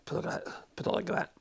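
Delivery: hoarse voice. Real, not acted. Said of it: "God, I'm really losing my voice".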